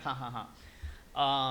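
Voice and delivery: spoken "ha, ha, ha"; deliberate token laugh, each ha separate; mock laugh. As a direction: recount a laugh with spelled-out ha-has. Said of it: "we all had a good laugh".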